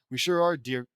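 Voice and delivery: lightly attempted British accent. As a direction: try a mild British voice.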